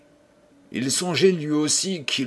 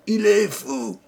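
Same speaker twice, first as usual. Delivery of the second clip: much higher, louder, breaking into a cry; furious cry; 10 semitones higher, 3 dB louder than usual. Acted. Old man screaming at the guests who doubt him. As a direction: explode on the last fou.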